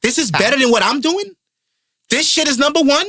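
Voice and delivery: high-pitched incredulous questions; acted disbelief. Speaking as a rapper about a rival's hit, acted disbelief. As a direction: play a rival baffled by the success. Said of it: "you sit back and say".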